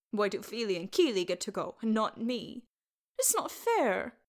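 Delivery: put-on aggrieved young lad, building in pitch; whining boy. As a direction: protest like a child left out.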